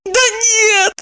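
high crying protest; tearful anger. Acted. Maya, crying, protesting to friends, high tearful. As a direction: cry it out, upset. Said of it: "рассердилась Майя и, вытирая слёзы".

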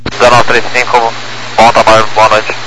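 tinny radio transmission; pilot over the radio. Real, not acted.

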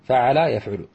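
قعد يقعد slowly as qa-'a-da, yaq-'u-du; teacher's drawn-out model of قعد يقعد; syllable by syllable. Shown as a demonstration. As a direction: sound out قعد يقعد with each syllable held. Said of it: "مثال آخر".

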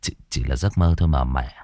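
stammer, trying to hide fear; shaken. Acted. Son soothing his mother, shaken and low. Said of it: "thì mặt biến sắc".

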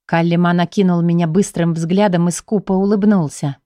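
usual speaking voice

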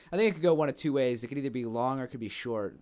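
fast, punchy sportscaster delivery; football announcer. Real, not acted. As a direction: call it like a game commentator. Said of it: "you sound like a football announcer".

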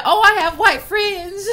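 slow sing-song mock of naive friends. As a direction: drag it out in a sing-song tease. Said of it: "They was like".

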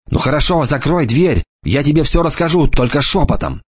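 light mocking boy's voice; lightly voiced cocky boy. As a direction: toss it off like a smug teenager. Enoch's voice.

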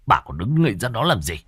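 urgent, rising to a high loud snap; old man barking at his wife to help; snapping. Acted. Husband snaps at his wife to help hold Kiều, angry shout. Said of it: "Nghe ông cả gắt lên".

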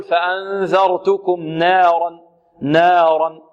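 نارا drawn out slowly with the alif bent toward ee; wrong imala on نارا. Shown as a demonstration. Teacher slowly showing students the common mistake, alif tilted. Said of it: "يريد أن يخلص النون من الراء فيقول".

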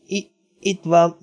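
halting ghostly tone; sepulchral voice. A narrator's reading. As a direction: falter it out slowly, as from the grave. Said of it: "hallották Missus Palmer síri hangját".

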